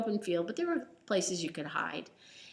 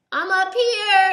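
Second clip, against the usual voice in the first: laughing; 13 semitones higher, 14 dB louder, slower than usual. Acted. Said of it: "and he laughed".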